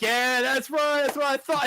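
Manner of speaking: high, slow, lightly put-on cocky voice; smug character voice. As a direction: play it up as a smug gamer. Characters' smug reply in retelling.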